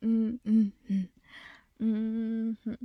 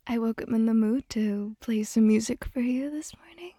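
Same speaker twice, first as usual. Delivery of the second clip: whispering. Real, not acted. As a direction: whisper tenderly to your love. Whispering to partner.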